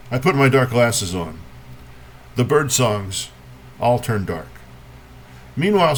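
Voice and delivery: measured poem reading with long pauses between images; poetry reading. Acted. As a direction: lift each opening phrase, let the line settle. Reads a poem to an audience.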